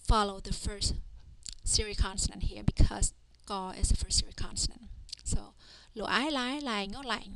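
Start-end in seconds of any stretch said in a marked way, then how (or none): 6.0-7.2 teacher sounding out "Lai" step by step; spelling-out demo. Shown as a demonstration. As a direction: blend "Lo, Ai" into "Lai", then add "Ngo". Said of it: "just like this".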